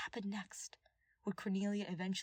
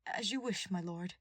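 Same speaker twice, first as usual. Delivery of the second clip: resigned. Acted. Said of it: "a resigned".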